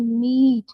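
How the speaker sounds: मीट with a drawn-out ee; long vowel. Shown as a demonstration. Teacher reading an example word, मीट with long ee. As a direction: stretch the ee in मीट. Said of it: "मतलब long करके पढ़ रही हूँ".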